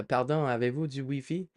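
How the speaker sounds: light imitation of a polite France French speaker; mildly mock-dainty French question; Parisian French accent. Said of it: "you'll hear somebody go".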